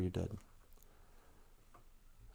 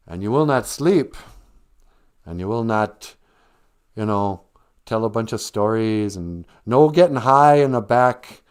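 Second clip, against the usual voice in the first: mean principal; 5 dB louder than usual. Retold or imitated. Principal banning everything in detention, loud and sarcastic. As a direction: tick off every rule with sarcastic authority. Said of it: "And he goes".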